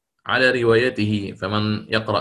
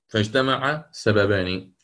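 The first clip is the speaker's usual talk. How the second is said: slower repeat; 3 semitones lower, slower than usual. Shown as a demonstration.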